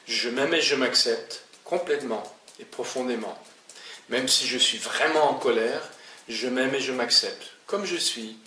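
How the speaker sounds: affirmation posée, qui s'adoucit sur la fin; dites-le en vous l'appliquant, avec conviction; formule d'affirmation EFT. Shown as a demonstration. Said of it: "tapoter et dire". (affirmation calme et convaincue)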